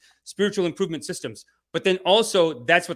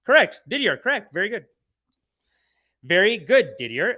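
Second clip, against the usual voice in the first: excited praise; 4 semitones higher, 6 dB louder than usual. Real, not acted. Praising a commenter.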